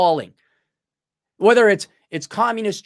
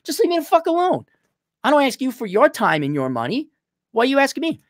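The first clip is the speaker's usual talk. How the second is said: mock exasperated plea; 8 semitones higher than usual. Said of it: "It's like".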